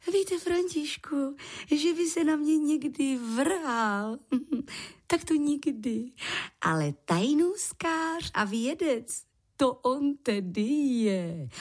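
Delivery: put-on a fond older lady half teasing; Květuš, gently amused. Květuš defends the professor to František, coy and amused.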